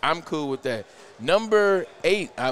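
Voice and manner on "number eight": top ten countdown. Acted. Countdown announcement.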